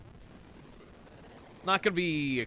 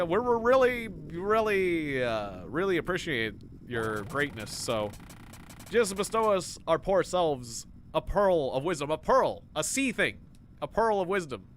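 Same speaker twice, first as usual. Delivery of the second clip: obsequious; 3 semitones higher than usual. Pretend. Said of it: "I'm being so damn obsequious".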